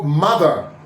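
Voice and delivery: MOTHER with an unrounded first vowel; spread lips. Shown as a demonstration. Teacher listing examples, MOTHER with spread lips. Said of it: "you spread your lips".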